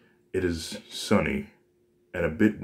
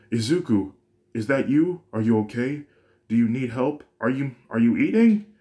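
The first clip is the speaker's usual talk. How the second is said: high, loud, rapid-fire worried questions; a frantic mother firing questions; freaking out; 6 semitones higher, 5 dB louder than usual. A narrator's reading. Mom panicking on the phone, frantic high questions. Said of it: "freaking out, starting to bombard Izuku with questions".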